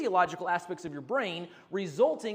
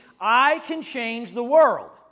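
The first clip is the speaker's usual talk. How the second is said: very loud, slow, emphatic, full of conviction; 3 semitones higher, 12 dB louder than usual. Leading an audience in a repeated phrase: louder, like you mean it. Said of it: "say it a little bit louder".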